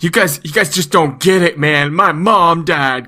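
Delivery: whiny, self-pitying imitation, dragging out the end; mock whining. Mocking Marco's complaint to the other kids, mock whine. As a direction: mimic a sulky complainer. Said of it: "Don't just stand around whining".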